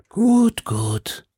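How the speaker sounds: composed call from behind a door; unruffled; calm voice. A narrator's reading. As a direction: call it out, then settle calmly. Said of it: "mit ruhiger Stimme".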